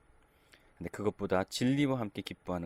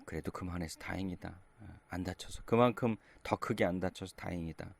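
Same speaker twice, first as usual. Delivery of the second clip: father easing his injured son, gently; relieved comfort. Retold or imitated.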